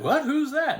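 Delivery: mock surprise. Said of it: "And he's like".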